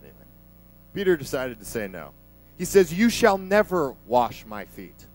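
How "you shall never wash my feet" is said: louder, slow, firm refusal; slow and loud, no room for argument; stern refusal. Retold or imitated. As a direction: Peter digging in against Jesus, loud. Peter refusing Jesus.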